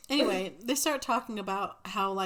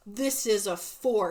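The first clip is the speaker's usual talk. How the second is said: overly deliberate; 6 dB louder, slower than usual. Pretend. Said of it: "it's very, like".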